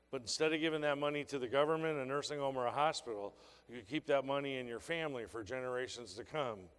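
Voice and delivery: soft, gentle sales pitch. Shown as a demonstration. Trainer demonstrating the pitch to a grandma. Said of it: "You walk up to every grandma".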